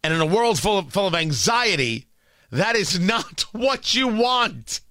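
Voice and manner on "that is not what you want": laughing. Real, not acted. Laughs mid-sentence about anxiety.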